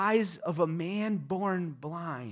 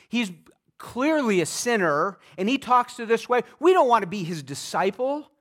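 much higher, louder indignant rant; outraged Pharisees; 6 semitones higher, 5 dB louder than usual. Acted. Pharisees ranting about the beggar, loud and indignant. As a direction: scoff at the beggar with contempt.

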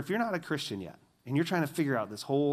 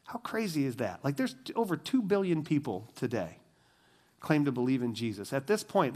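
ordinary delivery

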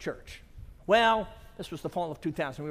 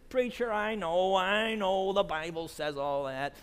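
slow, drawn-out imitation of a pleading lady; protesting churchgoer; slower than usual. Shy lady objects to the preacher, drawn-out protest. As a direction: stretch the words in a mock protest.

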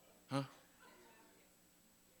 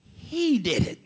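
shouted praise; 4 dB louder, slower than usual. Real, not acted. Anointed moment, shouting.

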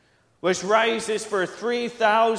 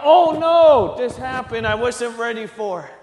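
Oh no squeaked much higher and louder in mock alarm; mock panicked God; 5 semitones higher, 8 dB louder than usual. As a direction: play God caught off guard, hammed-up. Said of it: "God's not gonna be like".

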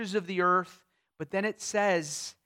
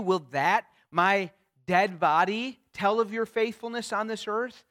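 pleading; 2 semitones higher, 6 dB louder than usual. Retold or imitated. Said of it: "notice how he pleads to God".

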